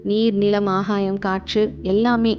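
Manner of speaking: calm meditation guide, with long pauses between phrases; guided meditation. Acted. Guiding listeners to relax and observe their breath, calm meditation voice. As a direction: lead them gently through it, phrase by phrase, leaving room to breathe.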